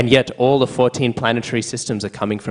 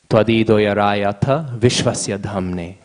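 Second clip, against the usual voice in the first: slow, drawn-out Sanskrit recitation; verse recitation; slower than usual. Real, not acted. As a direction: give each syllable of the verse its time.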